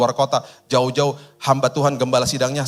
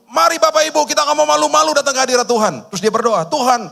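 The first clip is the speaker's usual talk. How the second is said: high, loud, fired-up church leader; rally the congregation with zeal; enthusiastic worship leader; 13 semitones higher, 5 dB louder than usual. Retold or imitated. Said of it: "Dia bilang gini, dengan semangat ya". (pemimpin ibadah penuh semangat, tinggi dan keras)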